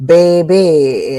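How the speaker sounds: slow, stretched New Orleans "bay-bee"; New Orleans accent. Shown as a demonstration. Louisianan showing how New Orleans people talk, stretched accent. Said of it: "talks like every, people from New Orleans".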